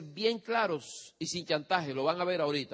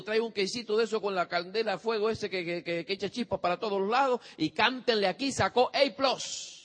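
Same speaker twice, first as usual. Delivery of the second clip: celebratory; 4 semitones higher than usual. Retold or imitated. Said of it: "le digo".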